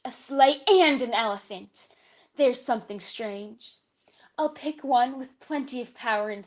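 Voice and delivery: put-on lively storybook read-aloud for kids; dramatic reading. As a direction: perform the Dr. Seuss story with relish. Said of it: "joining us for a dramatic reading".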